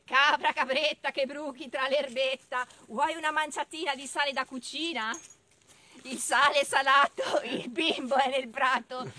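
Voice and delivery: lightly bleated nursery rhyme, loud on the beats; goat rhyme. Acted. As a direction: chant it like a little goat. Recites goat rhyme after bleating.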